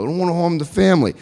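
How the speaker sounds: fast gangster-movie line; lightly voiced mobster, quick and clipped; a hint of Pacino; Al Pacino impression. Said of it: "You think I was watching Al Pacino".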